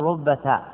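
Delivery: "رب تاء" run together as rubbata, final t voweled. Shown as a demonstration. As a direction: say "رب تاء" as one word ending in an open "ta". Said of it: "بتحريك التاء".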